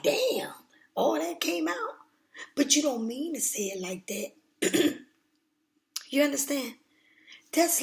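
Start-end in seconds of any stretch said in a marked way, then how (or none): 0.0-1.9 shocked reaction. Retold or imitated. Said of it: "people like".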